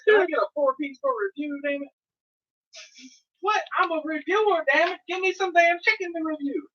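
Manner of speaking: hammed-up customer yelling for free chicken; mock demanding shout. Self-styled reviewer hollering at Popeyes for a four-piece, mock shout.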